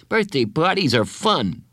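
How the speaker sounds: lightly encouraging, lifted voice; assuring. Acted. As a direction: cheer a friend on gently. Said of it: "he said assuringly".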